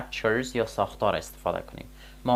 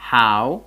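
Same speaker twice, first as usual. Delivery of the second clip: "how" said alone, much louder; stressed key word; 8 dB louder than usual. Shown as a demonstration. ("how" با تأکید و بلند)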